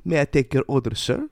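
lightly voiced posh waiter, lilting up at the end; a polite waiter taking an order, rising high on sir. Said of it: "a waiter comes over and goes".

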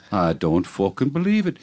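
mild stage-Irish disbelief; bad Irish accent, understated; horrible Irish accent. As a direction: marvel in a put-on Irish brogue. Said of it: "your horrible accent that makes the joke".

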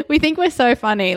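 laughing, lightly sarcastic self-mockery. Real, not acted. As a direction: tease yourselves with mild sarcasm. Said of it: "I was kind of being sarcastic".

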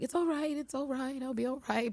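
high, soft, mock teary it's all right; teary reassurance. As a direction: reassure her while plainly about to cry, lightly played. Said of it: "when you sound like that".

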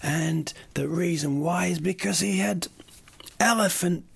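a hint of a film lawyer's big reveal; movie reveal. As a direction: play the lawyer unveiling the killer clue. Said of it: "they reveal at the end".

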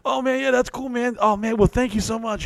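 mock polite brush-off; faking interest to escape a bore; fake politeness.

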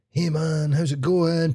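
lightly voiced pushy fundraiser; mock chirpy charity mugger. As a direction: imitate an overly friendly street fundraiser. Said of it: "this guy was pure".

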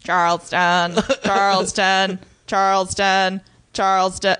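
malfunctioning robot flapper; stuck repeating like a broken robot; jerky animatronic voice. Pretend. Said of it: "that's a malfunctioning robot flapper".

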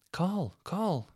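put-on high Manchester accent. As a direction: mimic a child calling in Mancunian. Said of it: "I can't do the Manchester accent".

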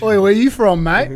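loud, high ocker heckle; hammed-up Aussie yob; mock Aussie accent. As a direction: bark it like a rowdy Australian bloke.

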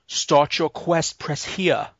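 slow, stretched game prompt. Retold or imitated. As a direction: read it like a game screen.

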